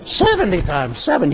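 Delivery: disbelieving echo of the number; Peter, dismayed. Retold or imitated. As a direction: repeat it in dismay. Peter repeats Jesus, dismayed.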